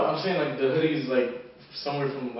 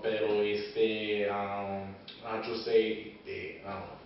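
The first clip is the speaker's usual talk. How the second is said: imitating John; 6 semitones lower, 7 dB quieter, much slower than usual. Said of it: "John said".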